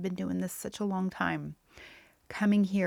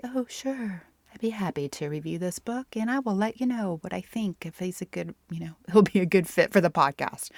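playing it cool. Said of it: "I played it really cool".

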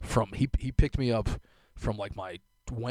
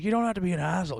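neighbor's retort; 9 semitones higher, 4 dB louder, faster than usual. Retold or imitated. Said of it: "She's like".

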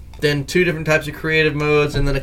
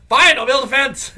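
laughing concession; 9 semitones higher than usual. Retold or imitated. Grudging reply to teasing.

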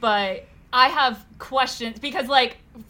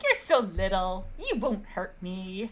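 soft, slow cooing; 4 semitones lower, 6 dB quieter than usual. Retold or imitated. Tipsy drinker to the little cups on the bar, cooing. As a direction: coo gently, drawing the words out.

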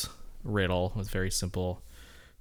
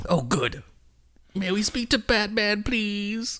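polite high caller; 11 semitones higher, slower than usual. Retold or imitated. Voicing Gordon on phone.

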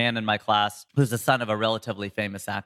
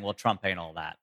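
mock dismissive quip; 4 semitones lower, 5 dB quieter than usual. To show how a political jab lands, mock dismissive quip. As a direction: toss it off like a barroom put-down. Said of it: "as much as saying".

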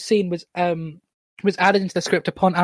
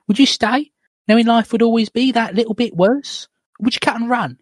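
wronged wife's dramatic questioning, often higher; female character voice; 4 semitones higher than usual. Acted. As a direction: press him in an acted woman's voice. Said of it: "do two different voices for this scene".

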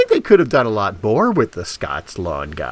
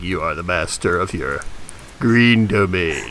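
mock ad voice; 5 semitones lower than usual. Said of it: "the ads write themselves".

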